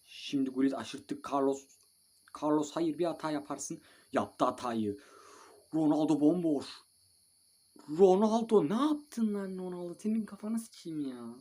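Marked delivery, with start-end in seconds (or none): 1.3-5.0 higher, louder shout; alarmed warning. Real, not acted. Gamer yelling at Carlos not to blunder, an alarmed shout. 5.7-11.3 much higher and louder, raging; furious yell. Real, not acted. Gamer raging at Ronaldo for missing an open shot, a furious yell.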